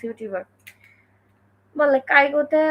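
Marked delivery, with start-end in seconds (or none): 2.1-2.6 "কাইগোতে" with an unaspirated k; mispronounced kaigo. Retold or imitated. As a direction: imitate learners saying "কাইগোতে" with hard plain k. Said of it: "খাইগোরে বলে কাইগো".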